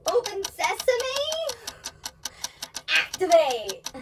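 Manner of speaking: loud, high, drawn-out playful command; theatrical pretend incantation, slow and loud; mock magic command. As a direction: call out a hammed-up spell to a dead TV.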